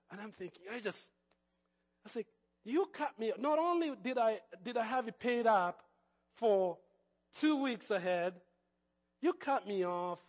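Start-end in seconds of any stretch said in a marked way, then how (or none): 2.6-10.2 raised, higher indignant protest; angry complaint. Retold or imitated. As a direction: tell them off, pitch up. Angry call to cable company.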